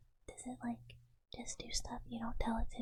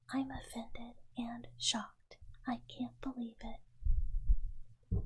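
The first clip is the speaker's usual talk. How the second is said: mock offended; 3 dB louder, much slower than usual. Mock offence at being asked to leave.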